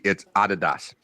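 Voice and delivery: Adidas said AH-dee-dahs, stress first, no S sound; Adidas with European AH-dee-dahs. Retold or imitated. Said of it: "let me be every European I met in D C".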